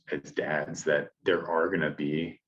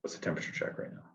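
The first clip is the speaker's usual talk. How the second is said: fast, much softer whispered question; hushed whisper; 9 dB quieter, much faster than usual. Retold or imitated. Kid tiptoeing around an upset dad, quick whisper. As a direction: whisper it so dad won't hear. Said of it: "We stay super quiet".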